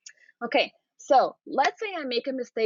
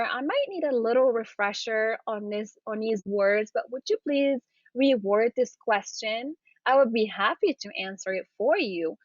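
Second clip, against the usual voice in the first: polite eager request. Shown as a demonstration. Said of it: "that tone of your voice that you're excited".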